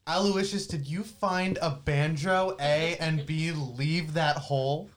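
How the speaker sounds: mild call, drawn out slowly. Acted. Player calling out toward the banjo, measured slow call. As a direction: call across without yelling, taking it slowly. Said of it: "kind of not yell, but call out".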